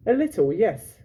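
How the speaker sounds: a hint of a wary girl; lightly voiced girl.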